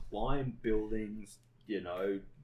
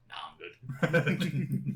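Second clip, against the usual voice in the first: very slow, drawn-out and louder; breezy; 5 semitones higher, 7 dB louder, much slower than usual. Retold or imitated. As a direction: shrug it off lazily. Retold breezy reply after fall.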